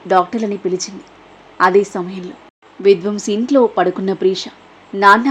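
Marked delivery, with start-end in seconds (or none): 4.9-5.3 shout from a nightmare. Acted. Daughter waking from nightmare, shouting for father. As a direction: jolt awake calling out. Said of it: "గట్టిగా అరుస్తూ".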